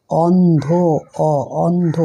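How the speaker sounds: অন্ধ with a firmly sounded, held ending; strong open vowel. Shown as a demonstration. Teacher sounding out অন্ধ for children, vowels strong and long. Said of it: "জোরে, জোরে sound হচ্ছে".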